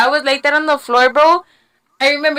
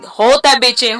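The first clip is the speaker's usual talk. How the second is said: urging to hold it; 4 dB louder than usual. Retold or imitated. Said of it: "they told me".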